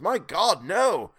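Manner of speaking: high, loud cry of refusal; extraordinary emphasis. A narrator's reading. Old man horrified at the offer, extraordinary emphasis. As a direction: cry it out vehemently. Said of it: "with extraordinary emphasis".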